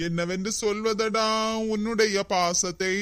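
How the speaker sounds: slow, soft, hammed-up choked lament; milk the sentiment, half sobbing; mock tearful wail. Moved husband thanks his friend, hammed-up tearful. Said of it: "எதுக்கு இப்படி கதறிட்டு கிடக்க".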